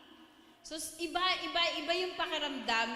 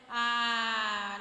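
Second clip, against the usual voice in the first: choked sob; 3 semitones lower, 5 dB louder than usual. Real, not acted. Fear of losing parent.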